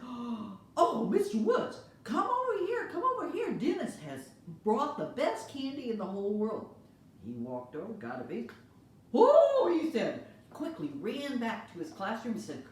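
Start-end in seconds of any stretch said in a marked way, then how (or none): 0.0-6.8 high, loud, thrilled call; gushing teacher. Acted. Teacher calls the neighbor over to taste, thrilled and high. Teacher gushes about candy. 9.1-9.8 very high, loud cry of delight. Acted. Teacher tastes the candy, high loud delighted cry.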